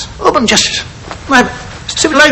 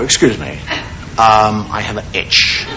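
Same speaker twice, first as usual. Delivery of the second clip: much lower, softer timid excuse; mock polite apology; 6 dB quieter than usual. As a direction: mumble it meekly to the bank manager. Acting polite bank customer.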